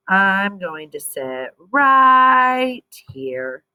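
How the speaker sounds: slow, stubborn refusal; a jealous big brother sulking. Acted. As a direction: dig in your heels, slowly.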